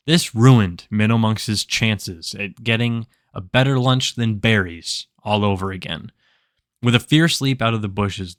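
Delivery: dramatic storyteller, measured and emphatic; story narration. Acted. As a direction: narrate a monster's hunt like a fantasy tale. Dramatic tale closing the build.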